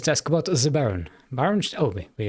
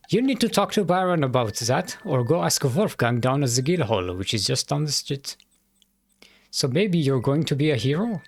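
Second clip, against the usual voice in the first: put-on German accent; 2 semitones higher than usual. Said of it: "me trying to do a German accent".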